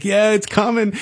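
high, keyed-up retelling; pumped-up anticipation. Retold or imitated. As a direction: re-enact an excited "here it comes" moment. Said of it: "getting pumped up".

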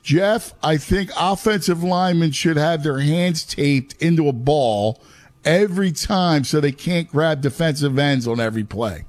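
a light, bad German accent; only a hint of a German accent. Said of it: "Cue the bad German accent".

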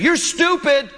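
put-on high whiny child's voice, slow and drawn out; mock a small boy yelling at his mother; bratty kid yelling. Pastor imitates a kid at Walmart yelling at his mom, high and whiny. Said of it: "And he kept saying".

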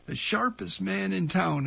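lightly imitated radio announcer, lifted on "sharpest"; a hint of an emcee's introduction. Radio host recalls Cadillac Baby introducing L C McKinley, mild announcer voice. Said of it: "in his best announcer voice".

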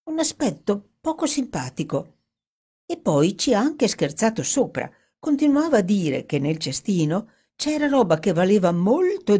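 lightly voiced woman, intrigued; Dorothy, suspicious. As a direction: recount the odd fruit seller with suspicion.

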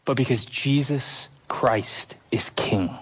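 slow, hushed whisper. Acted. Preacher to the congregation, slow whispered climax. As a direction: let it fall to a breathless hush. Sermon climax on Christ's kingship.

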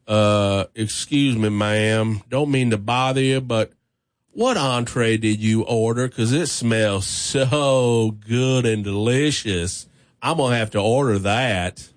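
lightly voiced big country guy, easy and low; imitating the big guy. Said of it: "That's how he said it".

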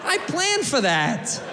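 slow, drawn-out mock war cry; mock defiant yell. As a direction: bellow it like a triumphant tourist. Mock defiant tourist yelling.

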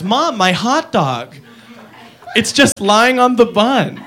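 lightly voiced whiny girl; whiny kid voice. Commercial girl quoted.

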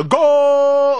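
imitating Andres Cantor. Host recalls Telemundo feed, imitated long goal call. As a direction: hold the word like a soccer commentator. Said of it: "Andres Cantor".

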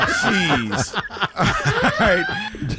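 high squeak through laughter; laughing. Real, not acted. Laughing reaction.

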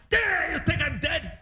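hammed-up indignant father; mock angry dad. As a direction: play the sulking father. Dad mad about wheelchair.

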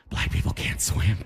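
hushed, voiceless aside; a racist uncle's whispered aside; mock whisper. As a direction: whisper it like a secret. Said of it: "why are you whispering?".

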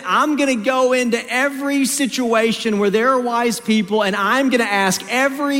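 fervent sermon resolve; preaching. Acted. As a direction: build it up like a vow from the pulpit.

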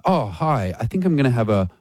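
casual order with an Italian flourish on bolognese; put-on Italian accent. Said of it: "will slip in the accent when they're ordering the dish".

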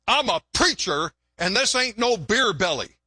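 mildly indignant retort; a touch of hammed-up wounded dignity. Preacher defends his belly to a passenger, mildly indignant. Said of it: "the preacher got all indignant".

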